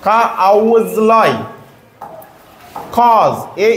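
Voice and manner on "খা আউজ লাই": slow, syllable by syllable; sounded out in parts. Shown as a demonstration. Teacher showing pupils how au is pronounced, slow and segmented. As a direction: break the word slowly into its sounds. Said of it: "এ ইউ থাকলে কেমন হবে উচ্চারণ".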